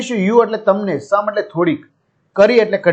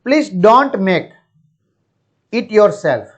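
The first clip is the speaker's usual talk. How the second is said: very slow, each word apart; slow classroom read of a request; slow dictation reading; 3 semitones higher, much slower than usual. Shown as a demonstration. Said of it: "teacher reads English line".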